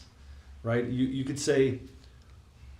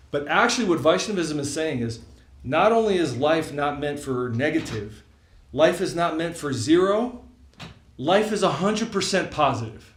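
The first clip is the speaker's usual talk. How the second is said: building emphasis; 4 semitones higher, 5 dB louder than usual. Real, not acted.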